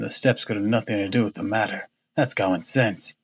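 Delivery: a self-satisfied policeman talking down; blustering inspector. Acted. Jones voiced in story.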